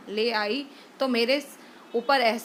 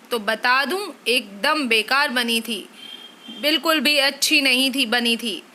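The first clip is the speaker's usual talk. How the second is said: mildly raised scolding husband; angry scolding; 3 dB louder than usual. Acted. Husband complaining to wife about tiffin, scolding. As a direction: scold her for the oily food.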